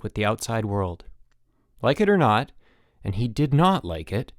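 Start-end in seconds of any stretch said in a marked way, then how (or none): none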